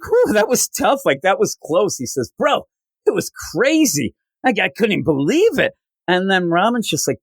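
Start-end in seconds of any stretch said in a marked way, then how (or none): 0.0-2.0 high, breathless mock relief after a close call; relieved sweating. Beast Boy telling the others after his narrow escape, high mock relief. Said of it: "like, sweating". 2.4-5.7 excited retelling. Retold or imitated. Beast Boy recounts wild dream.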